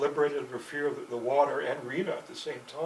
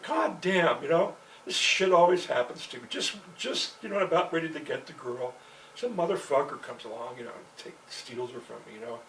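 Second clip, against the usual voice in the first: retold complaint; 4 dB louder than usual. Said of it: "I said".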